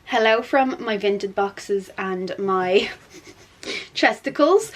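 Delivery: slightly lispy from whitening strip; with whitening tray. Real, not acted. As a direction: talk around a teeth strip. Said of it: "lispy at the moment".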